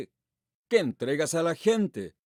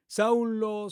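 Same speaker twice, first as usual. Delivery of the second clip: higher, ringing call of the name; 4 semitones higher than usual. Acted. Preacher voicing Jesus calling Saul, a higher ringing call.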